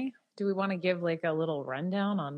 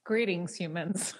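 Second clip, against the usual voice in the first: alien voice; slower than usual. Acted. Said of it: "I was hoping you missed that 'cause it was really odd".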